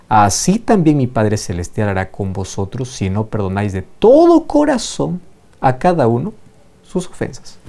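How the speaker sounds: measured Bible reading to the congregation; scripture reading. Acted. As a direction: read the parable out with weight. Reads the parable aloud.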